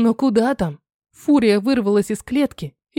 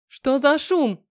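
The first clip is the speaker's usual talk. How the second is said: brisk call; 5 semitones higher, much slower than usual. Acted. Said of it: "деловито крикнула я".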